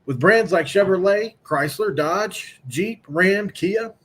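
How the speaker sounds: upbeat, brisk car dealer ad read. Acted. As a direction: sell it like a radio spot. Reads sponsor ad.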